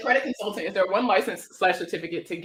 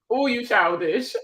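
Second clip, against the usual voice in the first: drawn-out, slower playful scolding; playful teasing; 3 semitones higher, slower than usual. Real, not acted. Streamer answers a viewer teasing her accent, drawn-out and playful. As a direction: stretch it out in mock reproach.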